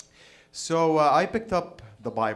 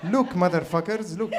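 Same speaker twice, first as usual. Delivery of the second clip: louder, higher put-on Arab accent; mock Arab accent; 5 semitones higher, 5 dB louder than usual. Jesus showing off to the disciples, mock Arab accent. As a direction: boast for attention in an Arab accent. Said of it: "that's his accent".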